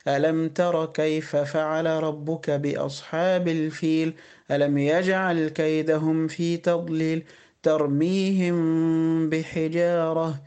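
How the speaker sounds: slow, measured tajweed recitation; Quran recitation. Acted. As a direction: recite slowly with ikhfa on meem.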